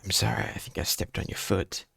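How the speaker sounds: unvoiced whispered apology; whispering. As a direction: breathe it, barely audible. Apology during the blind kiss.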